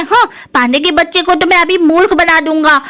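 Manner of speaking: put-on a touch of childish bragging; cocky little brother. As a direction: scheme aloud as the plucky kid brother.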